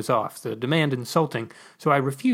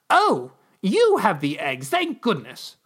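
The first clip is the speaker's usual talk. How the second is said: 1 smiling relief; 5 semitones higher, slower than usual. Acted. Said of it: "looked up at me and smiled".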